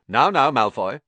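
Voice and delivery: high, loud mock reproof; suppressed smile. A narrator's reading. Snape mildly scolding Malfoy, hiding a smile. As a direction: scold while pleased. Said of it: "couldn't suppress a thin-lipped smile".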